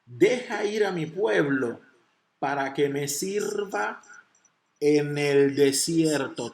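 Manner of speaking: very slow, phrase by phrase with long pauses; slow, deliberate reading. Shown as a demonstration. Preacher reads the key verse to congregation, slowly and deliberately. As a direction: read it out slowly, landing heavily on the last phrase. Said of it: "Y la voy a leer despacito".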